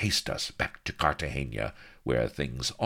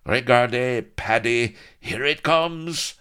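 high, loud French pirate taunt; French pirates jeering at Blood as they close in; 8 semitones higher, 8 dB louder than usual. Acted. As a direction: jeer at the Irishman.

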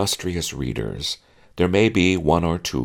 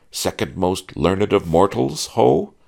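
mock grand title; 6 semitones higher, 5 dB louder than usual. A narrator's reading. Mock honorific titles escalating.

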